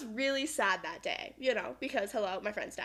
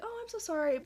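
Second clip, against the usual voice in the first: imitating roommate; 8 semitones higher than usual. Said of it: "And she was like".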